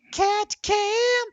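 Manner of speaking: high, loud game-show reveal; bursting with hype for the cat cam; excited announcement. Acted. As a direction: shout it like the big prize.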